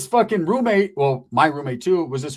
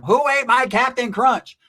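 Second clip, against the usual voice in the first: higher, slow indignant whine; mock mad roommate; 7 semitones higher, 4 dB louder, slower than usual. Roommate upset over his cereal, slow indignant whine. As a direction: demand the cereal back, put out. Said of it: "he would always get mad".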